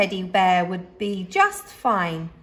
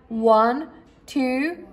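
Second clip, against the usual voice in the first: bear counting then calling; 8 semitones higher, slower than usual. A narrator's reading. Boris counting for hide and seek, then calling out playfully. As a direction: count slowly, then call out to the hiders. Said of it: "Boris boomed".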